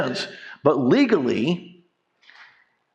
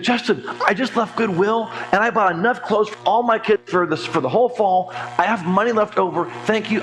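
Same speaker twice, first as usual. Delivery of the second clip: higher, bubbly thrilled thanks; excited; 5 semitones higher than usual. Retold or imitated. Client calling back thrilled from Goodwill, excited. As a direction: gush like she just scored a deal. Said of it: "She was so excited".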